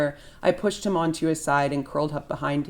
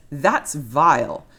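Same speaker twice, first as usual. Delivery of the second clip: disgusted; 5 dB louder, much slower than usual. Acted. Mother disgusted.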